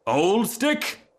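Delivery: high, rising incredulous echo; offended disbelief. Acted. Rocket hearing himself called old stick, affronted. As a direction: throw it back as an affronted question.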